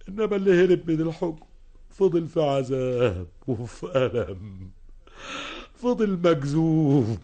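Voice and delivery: anguished confession. Acted. Fugitive confessing his torment.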